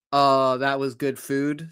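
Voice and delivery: sighed-out words after a good meal; contented sigh. Acted. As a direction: let out a mild, satisfied sigh.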